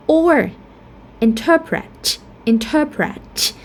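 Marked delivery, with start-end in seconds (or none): 1.2-3.5 interpret stressed on TER; stress on second syllable. Shown as a demonstration. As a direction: say interpret as in-TER-pret, long er in the middle. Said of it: "So we have er".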